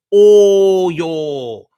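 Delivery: loud, high call-out to the crowd; shouted sign-off. Real, not acted. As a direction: belt out all y'all.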